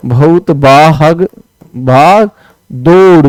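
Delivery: slow drawn-out बहुत भाग; slow dictation. Shown as a demonstration. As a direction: say it slowly for writing. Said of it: "बहुत भाग दौड़ ऐसे होता है". (धीरे-धीरे बोलकर)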